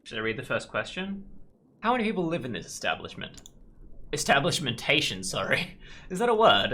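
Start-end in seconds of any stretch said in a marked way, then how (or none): 1.8-3.4 higher-pitched, put-on posh British reading; a clumsy try at a posh British officer; attempted posh British. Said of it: "I'm not good at accents".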